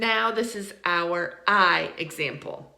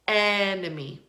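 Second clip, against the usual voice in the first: "enemy" led by a strong, open EH; EHN-uh-mee, weight up front in "enemy"; stressed short E. Shown as a demonstration. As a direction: lean on the first eh of "enemy". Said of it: "It sounds like eh".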